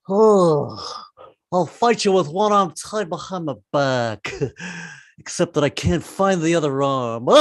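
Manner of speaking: slow, dazed lion voice; a lightly voiced lion, stoned and slow; stoned Cowardly Lion. Comic does the Cowardly Lion stoned, slow dazed voice. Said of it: "he should get stoned".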